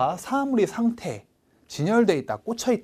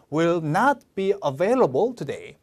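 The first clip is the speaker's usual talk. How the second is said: slow, NOT hit hard; slow read with "not" punched; stress on NOT; much slower than usual. Shown as a demonstration. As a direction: punch "not" in "Will not be available today". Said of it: "세게 읽어주라".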